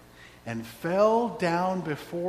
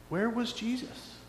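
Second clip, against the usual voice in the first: rising, louder anguished questions; real grief turning to loud protest; grieving protest; 6 semitones higher, 4 dB louder than usual. Real, not acted. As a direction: demand an answer from God. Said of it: "the day that my dad died".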